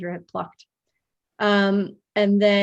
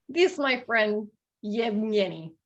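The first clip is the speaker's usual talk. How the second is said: put-on hunter's halting Russian-accented introduction; attempted Russian accent. Bald hunter introduces his friend in an attempted Russian accent. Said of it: "in a thick Russian accent".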